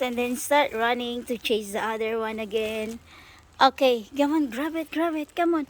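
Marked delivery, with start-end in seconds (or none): 3.6-5.7 urging. Real, not acted. Urging birds to grab bread.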